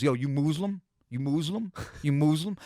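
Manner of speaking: "Muslim" said as MOOZ-lum, questioning; "Muslim" as MOOZ-lum, rising at the end; imitating friend's pronunciation. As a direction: mimic him asking strangers, "Muslim" with a long oo. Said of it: "how he would say Muslim".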